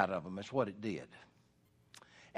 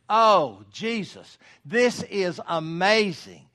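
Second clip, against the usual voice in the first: Oh drawn out slowly and loud, a careless modern gush; casual vain exclamation; 4 dB louder, slower than usual. Shown as a demonstration. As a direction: toss off Oh Jesus like a throwaway oath. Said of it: "as an exclamation and used in a vain way".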